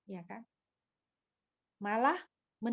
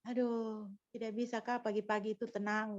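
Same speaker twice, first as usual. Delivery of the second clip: mild soft calm rebuke; a hint of a husband calming her down; husband's calm rebuke; 2 semitones lower, 7 dB quieter than usual. Husband telling his wife to keep mornings calm, softly. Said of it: "Lalu suami saya bilang".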